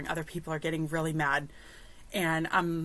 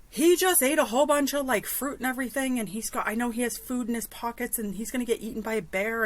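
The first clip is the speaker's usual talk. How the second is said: higher-pitched, mock-worried voice; mildly worried girl; 4 semitones higher than usual. Girl fretting over her lost drunk friend, mildly worried.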